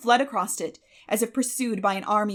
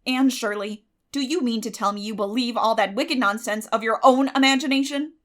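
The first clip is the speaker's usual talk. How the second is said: stern scolding; 3 semitones higher, 7 dB louder than usual. A narrator's reading. Guardian scolds girl.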